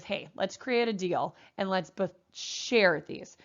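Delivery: slow, lightly put-on friendly atom proposing a deal; a hint of a cheerful atom offering to share; lightly voiced atom. Teacher voices atoms proposing deal.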